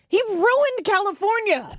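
high, slow outraged declaration; hammed-up indignant Jillian; mock indignation. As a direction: play up her outrage. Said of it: "Jillian Michaels is like".

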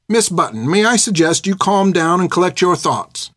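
lightly voiced, composed older nun, unhurried; perfectly calm. A narrator's reading. Carmeline calms Finn down, perfectly calm. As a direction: soothe her with cool authority. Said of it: "perfectly calm".

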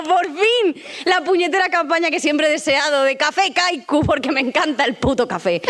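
mock thrilled.

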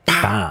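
popping "pow"; sudden explosive pow; punchy vocal demo. Shown as a demonstration. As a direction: imitate vocals jumping out with a burst. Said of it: "and the vocals came".

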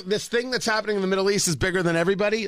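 rattled off fast, dismissive; "this thing that's happening" hurried through as a throwaway; rushed mock quote. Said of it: "that thing".

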